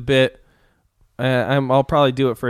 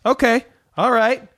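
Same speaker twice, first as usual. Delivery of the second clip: raised-pitch Denzel-style tough cop rant; lightly voiced swaggering crooked cop; Denzel speech impression; 5 semitones higher than usual. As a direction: channel the Training Day cop, swaggering. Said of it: "a speech you may recognize".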